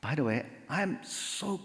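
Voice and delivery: slow, gentle, unruffled greeting; smiling greeting. Retold or imitated. Newcomer answering the neighbor's anger with a greeting, smiling. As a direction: stay sweet and friendly, deliberately slow. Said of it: "웃으면서".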